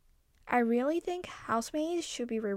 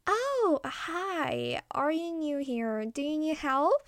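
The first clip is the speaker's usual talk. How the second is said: friendly, higher deer voice; higher, welcoming deer asking a newcomer if he needs help; kindly; 5 semitones higher, slower than usual. Acted. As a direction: greet a stranger kindly and offer help. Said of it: "said the deer kindly".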